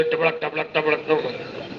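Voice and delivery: soft clicking gallop noises; clip-clop like hooves, quietly; horse hoof sounds. Retold or imitated. Retelling the youth's horse music, soft clip-clop. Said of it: "घोड़े की music भी दे रहा".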